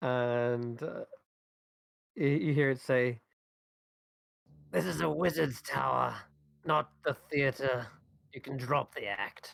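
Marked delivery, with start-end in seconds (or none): 4.7-9.5 rough, gruff, gravel-edged voice. Voicing a hidden speaker in a wizard's tower: gruff gravelly voice. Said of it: "It sounds kind of gruff, gravelly".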